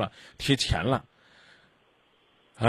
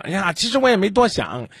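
high, sarcastic sigh of an excuse; mocking quote; 4 semitones higher than usual. Host sarcastically mimics the caller's own excuse, higher and mocking. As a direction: throw her excuse back at her, mocking. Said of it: "那会儿你不是说了吗？".

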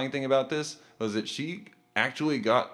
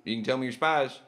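bad spy voice; 3 dB louder than usual. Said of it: "Jimmy Bond".

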